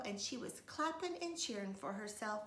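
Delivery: usual speaking voice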